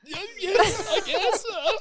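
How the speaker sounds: very high, laughing mock squeak; flustered squeak. Starstruck man answering his idol, flustered high squeak. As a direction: squeak it out, mocking your own starstruck nerves.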